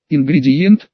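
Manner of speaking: "Ингредиент?" as a puzzled question, rising at the end. A narrator's reading. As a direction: ask "Ингредиент?" with a lifted, querying ending. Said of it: "вопросительно уставился на Ицуки".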